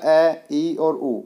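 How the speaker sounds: ए, ई और उ each said short and separate; slow vowel demo. Shown as a demonstration. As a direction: spell out ए, ई और उ slowly like a teacher. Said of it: "एक मात्रा का समय लगता है". (स्वरों को धीरे धीरे अलग अलग बोलें)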